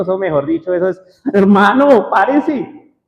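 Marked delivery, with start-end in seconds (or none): 1.3-2.9 louder and higher, urgent yell; desperate shout. Retold or imitated. Sinking disciples yell at Jesus, desperate shout. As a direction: shout him awake in panic. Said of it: "usted cuando está desesperado".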